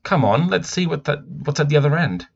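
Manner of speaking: put-on a boy pulling his sister toward the tunnel, eager. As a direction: urge her to come and see. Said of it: "he said".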